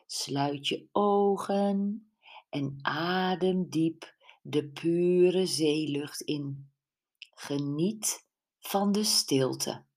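slow, soothing instructor voice; calm yoga instruction. Acted. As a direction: guide the class gently into stillness. Brenda leads morning yoga class.

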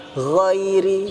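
Ghairi with stretched vowels and voiced gh rasp; upper-throat gh. Shown as a demonstration. Teacher demonstrating ghin, voiced throaty gh in Ghairi. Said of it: "itu tenggorokan bagian atas".

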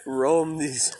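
slow, solemn storyteller voice; mock legend telling. Joking about ogres, slow mock-legend narration. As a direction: intone it like an ancient legend.

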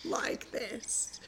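slow, drawn-out put-on voice. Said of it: "I need to speak like this".

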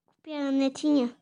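muffled behind his hand; talking through fingers over the mouth. Real, not acted. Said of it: "Tira a mão da boca". (com a mão na boca)

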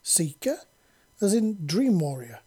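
exclaiming. A narrator's reading. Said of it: "Vippy exclaimed".

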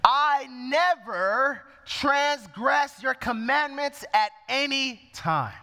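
slow, self-righteous claim; mildly indignant and proud, slow; proud elder son. Acted. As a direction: drag it out like a son proud of his record. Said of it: "you see pride coming in here".

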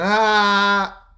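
loud high startled "Ah!"; sharp cry. Retold or imitated. Boss cutting off the laugh, loud high yelp.

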